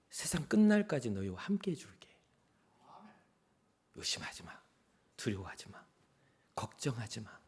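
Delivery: soft whispered promise not to fear; tender whisper. Acted. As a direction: hush and reassure like Jesus to frightened disciples. Jesus comforting disciples.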